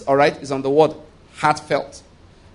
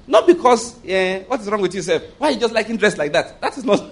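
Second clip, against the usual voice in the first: higher, incredulous telling-off of the man; mock scolding; 5 semitones higher than usual. Preacher mock-scolds a man who likes dresses, incredulous. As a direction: scoff at him, amused disbelief.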